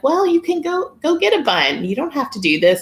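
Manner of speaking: exasperated to husband. Retold or imitated. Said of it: "And I'm like".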